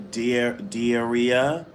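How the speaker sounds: slow, stumbling Di- Diarrhea with a rise; unsure first try at Diarrhea; halting name reading. Shown as a demonstration. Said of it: "Is that how you say it".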